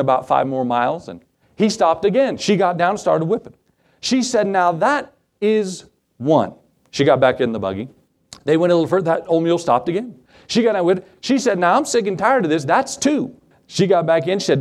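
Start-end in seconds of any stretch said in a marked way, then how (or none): 4.5-6.5 slow, deliberate count as a warning; acted stern wife, spacing out each word; measured warning. 11.6-13.3 acted fed-up wife, pitch climbing at the count; mock exasperation, rising higher; fed-up warning.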